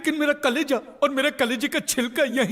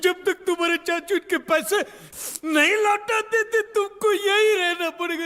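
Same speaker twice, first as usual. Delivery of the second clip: tearful farewell; 4 semitones higher than usual. Acted. Wailing farewell to nephew left as pledge.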